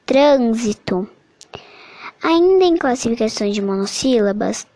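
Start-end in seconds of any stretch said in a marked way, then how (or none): 0.0-1.1 "trânsito" slowly, stressed on TRÂN; "trânsito" as a slow stress example on TRÂN; stress on antepenultimate syllable. Shown as a demonstration. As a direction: draw out "trânsito", leaning on TRÂN. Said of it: "é a antepenúltima".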